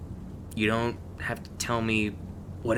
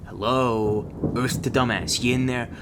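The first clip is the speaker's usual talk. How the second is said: raised voice, calling to someone spaced out; impatient calling out; 3 semitones higher, 4 dB louder than usual. Acted. Mentor to a dazed rookie, impatient calling out. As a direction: call out to snap them to attention.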